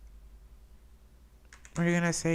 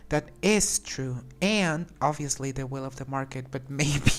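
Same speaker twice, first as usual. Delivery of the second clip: reading option, laughing. Real, not acted. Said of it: "We can say".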